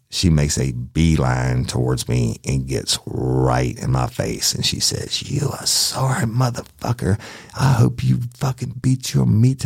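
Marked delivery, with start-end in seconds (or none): 5.3-9.6 high-pitched imitation of an irate wife; mock angry woman. Wife cussing out the detective face to face, mock angry high voice. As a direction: mimic her furious tirade in a raised pitch.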